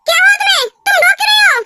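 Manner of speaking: high-pitched, anxious phone exchange; worked-up. Acted. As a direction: raise the pitch with concern. Phone call, asks why she cries. (परेशान, ऊँचा सुर)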